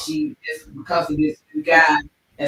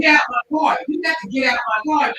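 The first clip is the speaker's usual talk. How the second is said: high, loud mock command to get out; retold order; 7 semitones higher, 4 dB louder than usual. Driver ordering passenger out of his car, shouted. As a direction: throw him out of the car, shouting. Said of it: "He pulled up and he was like".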